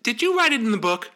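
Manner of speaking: loud, sharp, stress on write; angry repeat. Acted. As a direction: bark the question at him, stressing write. Boss repeats, angrier.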